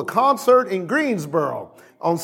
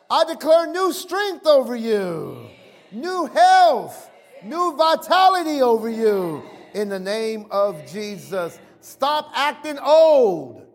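preacher's declaration; 3 semitones higher, slower than usual. Real, not acted. Preacher declaring new strength over the people, forceful proclamation.

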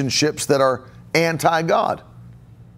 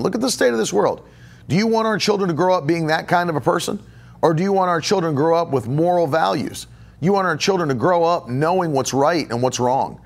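urging husband. Retold or imitated. Wife pleading with unsaved husband, quick and raised. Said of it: "Tell your husband".

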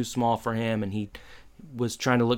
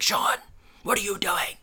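urgent retold outburst; 8 semitones higher than usual. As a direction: pop out and confront a friend, pitched high. Corey pops out, confronts Sean.

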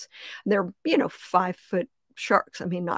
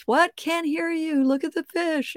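mock husband; 9 semitones higher than usual. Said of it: "and he's".

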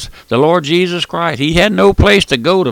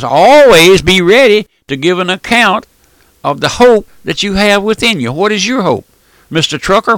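preaching; 3 semitones higher, 6 dB louder than usual. Real, not acted. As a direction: press the listener with loud, pointed questions. Presses listeners with urgent preaching.

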